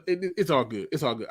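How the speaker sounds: usual speaking voice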